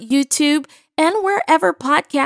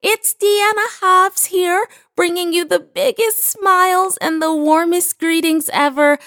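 smiling voice; 6 semitones higher than usual. Real, not acted. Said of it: "hear the smile in my voice".

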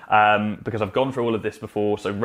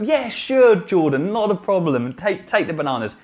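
mock cheerful agreement; 6 semitones higher than usual. Shopkeeper mockingly giving in.

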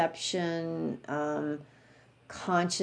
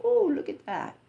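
higher, self-satisfied preen over his own books; mock smug pride; 5 semitones higher than usual. Monk admiring his bookcase full of books, mock smug. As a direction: play the monk admiring himself, lightly smug. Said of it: "he'll look at the bookcase and go".

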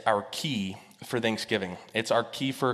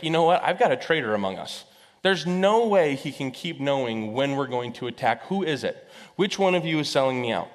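suspicious king; 3 semitones higher than usual. Acted. King suspects a traitor.

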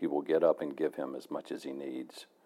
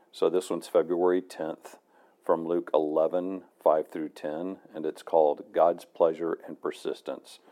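tired low voice from traveling; low, worn-out travel voice. Real, not acted. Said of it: "Sorry for the low voice".

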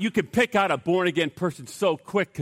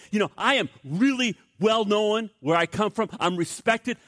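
pompous, emphatic lecturing in higher pitch; hammed-up scornful pronouncement; scoffing boast; 4 semitones higher than usual. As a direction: play a boastful scholar scoffing, slowing on each dismissal. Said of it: "The man scoffed, and he boasted".

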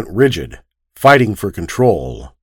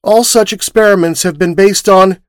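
drained, hollow grieving voice, pitched higher; gray ashes of a voice; 10 semitones higher than usual. Acted. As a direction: recite the evidence emptied of feeling. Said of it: "With the gray ashes of a voice".

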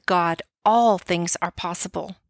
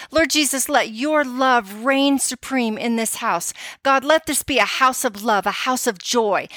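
prayer; 2 semitones higher than usual. Shown as a demonstration. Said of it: "you say".

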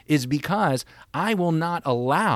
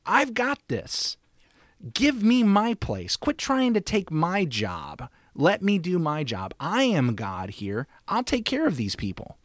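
higher, firm voice of God taking charge; God commanding; 5 semitones higher than usual. Acted. God telling the worried people he has it handled, firm. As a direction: step in as God telling people to stop fretting. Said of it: "it would be this statement that says".

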